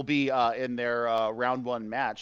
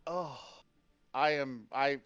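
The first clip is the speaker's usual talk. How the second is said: choked up; 5 dB quieter than usual. Real, not acted. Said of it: "I'm a little emotional".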